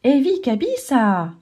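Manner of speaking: slow, stretched amazed call; surprised cry. Acted. Kayon spotting the long line of animals, a slow amazed cry. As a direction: marvel aloud at the crowd. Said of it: "s'écrie Kayon".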